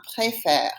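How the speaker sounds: "préfère" with an open eh in the last syllable; eh sound. Shown as a demonstration. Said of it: "Gives it an eh sound".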